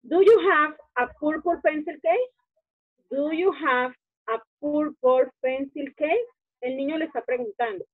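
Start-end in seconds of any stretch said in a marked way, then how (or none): 0.0-6.3 lectura lenta de pronunciación. Shown as a demonstration. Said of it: "Es para pronunciación lo que estamos haciendo".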